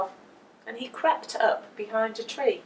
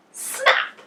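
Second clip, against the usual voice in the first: sharp snap. A narrator's reading. Sound effect word.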